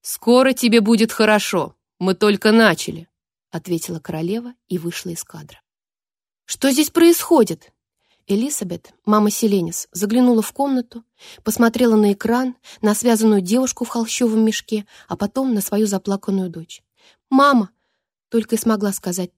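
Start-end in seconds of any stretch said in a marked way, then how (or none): 0.0-3.1 eldritch horror. Acted. Queen threatening captive. 6.4-7.7 alarmed. Acted. Mother bursts in. 17.3-17.7 tearful cry. Acted. Crying daughter calls out.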